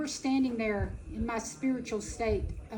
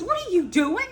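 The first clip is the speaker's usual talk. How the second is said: husband's demand; 5 semitones higher, 6 dB louder than usual. Retold or imitated. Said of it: "Tommy says".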